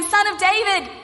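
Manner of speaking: high, pleading call. Acted. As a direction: call out to Jesus in earnest. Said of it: "But this time he's saying".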